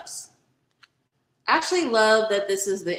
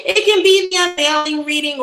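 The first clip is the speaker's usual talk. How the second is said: louder retry; 7 semitones higher, 8 dB louder than usual. Real, not acted. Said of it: "what the fuck am I trying to say".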